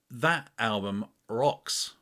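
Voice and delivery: slow, weighty "That album rocks"; savouring the praise; drawn-out emphasis. Shown as a demonstration. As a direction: lean on "rocks" slowly. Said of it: "See, I'd cut that out normally".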